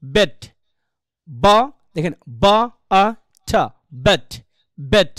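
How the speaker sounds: "বেট" broken into separate sounds, then blended; sound-by-sound pronunciation. Shown as a demonstration. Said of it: "বলেন তো, এটা উচ্চারণ কি?". ("বেট" ভেঙে ভেঙে উচ্চারণ)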